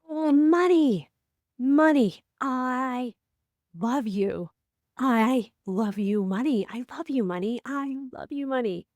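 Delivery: high, slow, swooning love for money; gushing over money. Retold or imitated. Speaker on stage adoring his dollar bills, swooning. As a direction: croon to the cash like a lover. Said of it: "she felt totally disgusted".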